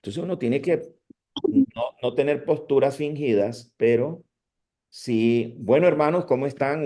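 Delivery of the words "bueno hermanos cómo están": lively but unforced welcome to the congregation; a confident, friendly hello from the pulpit; sure, calm greeting. Shown as a demonstration. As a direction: greet the brethren with steady encouragement. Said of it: "Un ánimo seguro, tranquilo, no fingido".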